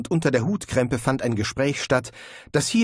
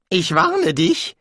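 slow, higher, louder threat through gritted teeth; gritted-teeth warning; 8 semitones higher, 5 dB louder, slower than usual. A narrator's reading. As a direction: spit the warning out slowly through clenched teeth. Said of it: "zwischen zusammengebissenen Zähnen hervor".

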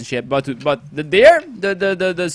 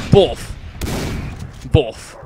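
explosion sound; 3 semitones lower than usual. Shown as a demonstration. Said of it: "It's my favorite word".

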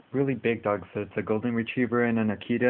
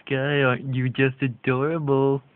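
slow, drawn-out pet talk; puppy talk; 3 semitones higher, 6 dB louder, slower than usual. Real, not acted. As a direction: gush over the dog. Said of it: "you love all this little puppy talk".

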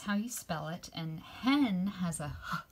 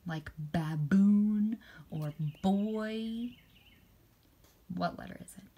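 whisper. Shown as a demonstration. Teacher whispering examples for the b sound.

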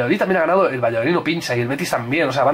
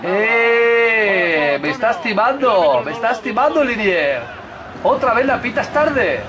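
high, indignant complaint at the linesman; higher, outraged; protest; 6 semitones higher, slower than usual. Real, not acted. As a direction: protest that he is being cheated. Protesting offside call.

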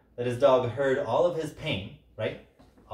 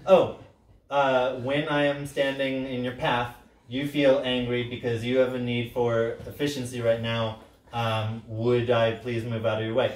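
giraffe ears translation. Shown as a demonstration. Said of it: "my giraffe ears".

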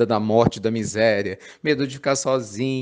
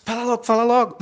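half-laughing, impatient fala logo; laughing mock urging; 8 semitones higher, faster than usual. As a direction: laugh through the eager pleading. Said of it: "Porque ansioso é assim". (imitando o ansioso, rindo e impaciente)

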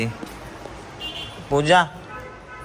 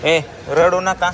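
slow, firm, louder telling-off; firm scolding; 2 semitones higher, 5 dB louder, slower than usual. Real, not acted. Father tells crying kids to stop, slow firm scolding.

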